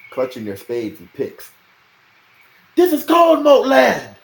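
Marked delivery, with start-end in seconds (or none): 2.8-4.2 high, slow, defiant shout. A narrator's reading. Digger shouting at the knights, high and slow. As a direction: plant your feet and shout the claim. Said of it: "one man shouted".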